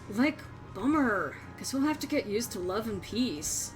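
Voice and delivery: put-on bubbly sorority girl voice; valley girl, lots of like; Valley Girl accent. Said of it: "Valley Girl accent".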